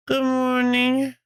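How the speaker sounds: talking through a swollen lip. Real, not acted. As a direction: lips puffy, words a bit thick. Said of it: "my lips are a little swollen".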